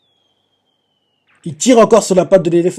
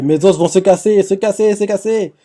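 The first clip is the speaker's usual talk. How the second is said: higher, repeated wail of a lightly voiced skeleton; a hammed-up Brock, higher; Brock's lament; 5 semitones higher than usual. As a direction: moan it over and over, pitched up. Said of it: "on voit Brock qui fait".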